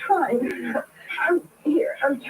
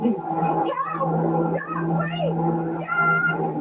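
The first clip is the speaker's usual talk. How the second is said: much higher, desperate calls into the dark; calling out for help; much slower than usual. Acted. Alone on a dark road, Carlotta calls to a passing car, high and frantic. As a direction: wave down a distant car with frantic shouts.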